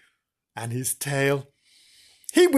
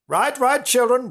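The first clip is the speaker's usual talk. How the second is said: excited; 8 semitones higher, 3 dB louder than usual. Acted. Sudden high eager restart.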